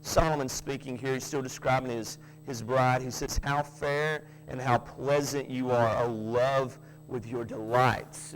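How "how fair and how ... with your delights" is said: slow, lower, emphatic scripture reading. Acted. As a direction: read it with weight, it's emphatic. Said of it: "exclamation point at the end".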